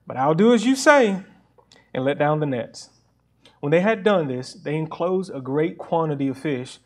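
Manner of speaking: steady, public Bible reading voice; scripture reading. Acted. Pastor reads the Gospel to his church, in a measured scripture voice. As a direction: read the passage out to the congregation. Reads Luke passage aloud.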